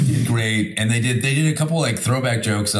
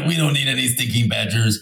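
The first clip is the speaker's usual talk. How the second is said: lightly put-on Mexican accent on "stinking badgers"; hint of a Cheech and Chong Mexican accent; mock Mexican accent. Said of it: "Sorry for the accent".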